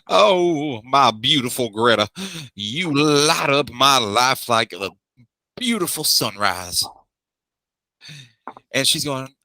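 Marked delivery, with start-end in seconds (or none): 0.1-6.8 booming voice. Acted. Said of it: "Lord Bormier's booming voice".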